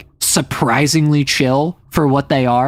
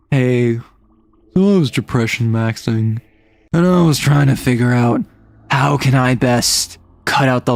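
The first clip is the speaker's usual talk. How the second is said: ogre talk; 3 semitones lower than usual. Acted. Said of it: "that's the kind of way that they talk to you".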